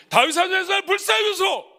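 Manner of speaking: high, loud desperate shout; crying out loud. Shown as a demonstration. Pastor demonstrates the beggar's cry to the congregation, loud desperate shout. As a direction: cry out like a blind beggar begging Jesus. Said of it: "이렇게 막 했어요".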